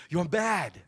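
soft, savored mock British "You're mad.", "mad" falling; quiet British "you're mad". Shown as a demonstration. Preacher repeating the British wording to savor it, quiet mock British. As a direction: linger over "You're mad." in a light British voice. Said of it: "I love how that sounds".

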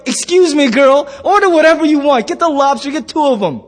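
playful, puffed-up insistence; indignant boasting. Acted. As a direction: protest like an insulted big spender. Indignant date insists he can pay.

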